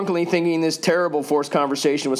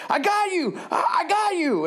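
high yell across the bar; drunken yell. Retold or imitated. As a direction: yell it to a friend across the room. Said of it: "screaming back at her".

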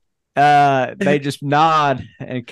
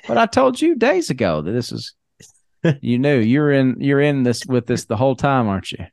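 mock accusing villain. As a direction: rise in pitch as he turns on Mitt. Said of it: "he turns around and says".

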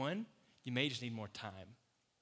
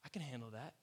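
reassuring; 3 semitones higher than usual. Retold or imitated. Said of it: "He's like".

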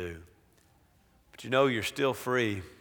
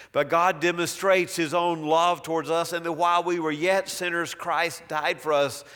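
scripture reading. Acted. Preacher reads Romans aloud.

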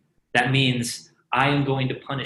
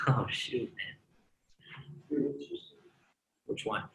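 ordinary talk, nothing marked

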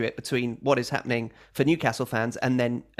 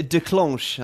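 French accent. Shown as a demonstration. Mock French correction of declench.

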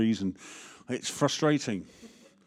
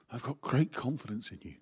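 softer, personal, "great" gently stressed; own voice; 6 dB quieter than usual. Shown as a demonstration. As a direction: say it quietly as yourself, meaning it. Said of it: "you can hear Paul's voice or you can hear mine".

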